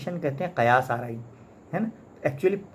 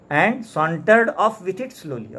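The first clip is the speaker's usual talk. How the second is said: "sauntered" stretched out very slowly and louder; leisurely reading; 4 semitones higher, 4 dB louder, much slower than usual. Shown as a demonstration. Teacher acts out the thief strolling off, very slow and drawn out. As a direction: read "and sauntered off with it slowly" at a lazy stroll's pace. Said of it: "sauntered कहते हैं relax manner में".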